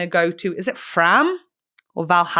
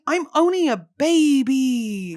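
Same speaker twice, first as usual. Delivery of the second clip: mock pity; 3 semitones higher, slower than usual. Play-acting a bullied victim.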